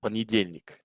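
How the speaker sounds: понедельник stressed on the third syllable, по-не-ДЕЛЬ-ник; понедельник in beats, strongest on дель; clapped syllable stress. Shown as a demonstration. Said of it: "Sometimes clapping helps".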